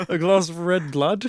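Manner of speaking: repeats the phrase with a sceptical rise; mocking disbelief. Real, not acted. Friend mocks the redundant phrase, sceptical. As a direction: question the redundant red blood. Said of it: "That's so redundant".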